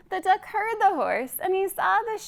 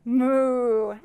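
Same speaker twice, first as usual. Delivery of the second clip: moo; 3 dB louder than usual. Shown as a demonstration. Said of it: "what does he say".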